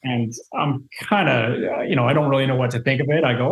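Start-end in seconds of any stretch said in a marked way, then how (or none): none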